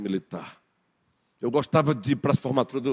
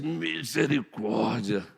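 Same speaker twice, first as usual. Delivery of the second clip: mock sigh; 5 dB quieter, much slower than usual. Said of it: "Noemi já disse".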